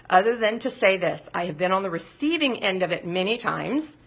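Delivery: normal talking voice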